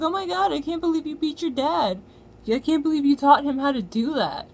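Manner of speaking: high, mocking gasp of disbelief; mock shock. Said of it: "and it was like".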